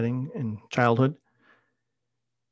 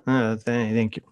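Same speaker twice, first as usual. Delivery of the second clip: hesitant thank you, a touch louder; halting thanks, a bit more voice; a little louder. Retold or imitated. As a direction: stammer it out, slightly stronger. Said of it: "A little bit louder".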